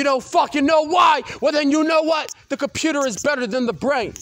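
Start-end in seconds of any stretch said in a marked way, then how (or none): 0.0-2.3 louder, heated ranting shout; angry shout. Real, not acted. Ranting at whoever gives setup answers, angry shout. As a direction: snap it out in real anger.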